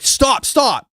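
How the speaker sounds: mock him cutting her off; retold telling off. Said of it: "when he's like".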